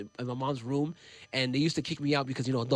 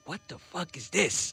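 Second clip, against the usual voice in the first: baffled reaction; 5 semitones higher, 4 dB quieter, slower than usual. Retold or imitated. Retelling his startled reaction to song.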